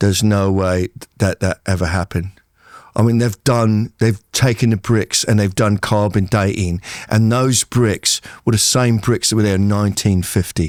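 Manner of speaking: put-on British accent, laid on, not posh. Imagining British people doubting the rebuild, speaker does a British accent. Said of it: "That's a great accent".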